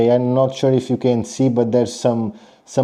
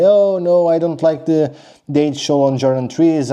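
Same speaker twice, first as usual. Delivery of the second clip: lightly imitated complaint, pitched higher; a hint of mock protest, higher at the start; complaining sneakerhead; 4 semitones higher than usual. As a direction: mildly mimic a sneakerhead objecting. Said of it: "a lot of sneakerheads say".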